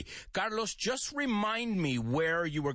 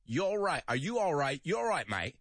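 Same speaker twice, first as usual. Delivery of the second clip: put-on British accent; 2 semitones higher than usual. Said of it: "O más británico".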